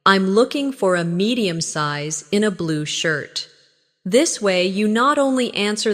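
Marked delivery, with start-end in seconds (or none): 0.1-3.5 slightly slower, measured model sentence; slow repeat. Shown as a demonstration. Teacher models a clothes shopper's detailed answer, slightly slower. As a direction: take a little more time over the phrase. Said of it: "Repeat it slowly".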